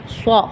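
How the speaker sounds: سو said as a heavy, emphatic ṣ with rounded, back vowel; emphatic Arabic ṣād in سو. Shown as a demonstration. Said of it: "سین کو موٹا کر دیں گے تو بن جائے گا".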